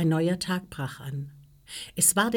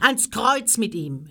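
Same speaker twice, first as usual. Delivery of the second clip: slow, higher, louder cry; crowd's shout; 5 semitones higher, 5 dB louder than usual. A narrator's reading. Priests demanding Jesus' death from Pilatus, shouting. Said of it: "schrien sie alle".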